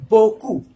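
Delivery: "beaucoup" with a pure "oh" in the first syllable; EAU said as "oh". Shown as a demonstration. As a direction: model "beaucoup" as French "boh-koo". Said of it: "you will pronounce O".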